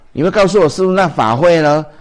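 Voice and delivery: loud, high imitation of a disciple asking; lightly voiced eager disciple. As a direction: toss the disciple's question out loudly. Voicing a disciple's question.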